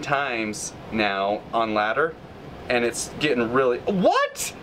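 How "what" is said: a sudden very high startled squeak; shocked what. Real, not acted. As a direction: jump up in pitch, caught off guard. Sudden shock mid match.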